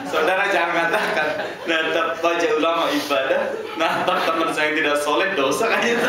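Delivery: high, loud preaching cry; loud warning. Acted. Preacher warning the congregation, loud and high. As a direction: call the congregation out loudly.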